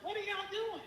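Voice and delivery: high, incredulous cry; exasperated disbelief. Retold or imitated. Finding no disputes filed, she cries out in high disbelief. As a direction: ask it like you can't believe it. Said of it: "I'm like".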